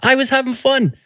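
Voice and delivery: high-pitched impassioned rant; heated. Real, not acted. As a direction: get worked up defending the fun, pitch soaring. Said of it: "Sorry, I'm getting heated".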